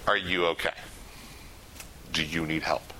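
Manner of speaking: soft, whispered check-in; gentle whisper. Shown as a demonstration. Showing the class a gentle hushed check on someone. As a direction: ask quietly, no touching. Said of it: "Always ask and don't touch".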